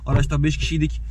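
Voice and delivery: talking around a candy in the mouth; words shaped around a sweet in the mouth. Real, not acted. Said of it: "ağzımda şeker var".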